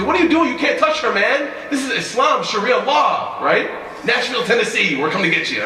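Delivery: high, loud outraged enforcer act; mock yelling. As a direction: holler it like a hammed-up religious policeman. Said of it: "He didn't yell at".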